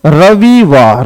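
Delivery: रविवार said slowly, each syllable apart; slow spelling demo. Shown as a demonstration. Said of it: "वी का छोटी ई की मात्रा आएगी". (रविवार धीरे-धीरे अक्षर अलग)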